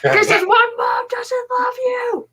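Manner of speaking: high, slow hissed taunt; playful cruel whispered dig; mock taunt. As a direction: jab at him in a stage whisper. Teasing taunt at dad.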